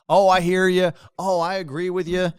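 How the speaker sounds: lightly hammed-up chiming in; mimicked responsive audience member. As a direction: imitate someone who answers everything. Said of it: "They wanna answer every question".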